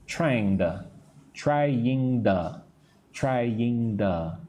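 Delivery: "trying to" with "to" as a quick "duh"; reduced to. Shown as a demonstration. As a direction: drill "trying-duh" for the class. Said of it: "say that with me".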